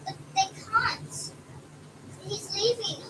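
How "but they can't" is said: high, slow protest; worried protest. Real, not acted. Daughter objecting that the doctor is leaving, worried. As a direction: plead it, worried.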